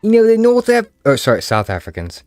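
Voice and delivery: mock South African accent, high and loud; South African impression. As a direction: squeeze it through the nose, South African. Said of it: "they kinda talk like this to the nose".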